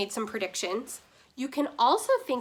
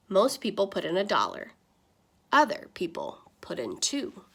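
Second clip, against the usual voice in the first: lightly voiced pastor appeal; a hint of a preacher passing the plate; mild sermon tone; pastor speaking; 3 dB louder than usual. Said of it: "Pastor Butters summed up the situation".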